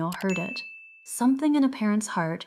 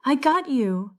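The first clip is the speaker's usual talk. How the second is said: gasping; 5 semitones higher than usual. A narrator's reading. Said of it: "Daniel gasped".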